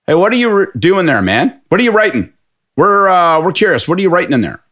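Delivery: a big rugby type shouting his curiosity; burly pub guy. Retold or imitated.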